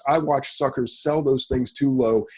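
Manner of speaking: slow, leaning hard on every word; with emphasis. Real, not acted. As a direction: drive each word home slowly. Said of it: "I'm gonna say this with emphasis".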